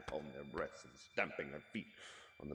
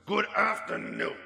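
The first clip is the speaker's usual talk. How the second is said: curt dismissal; 9 dB louder than usual. Acted. Scrooge dismisses nephew curtly.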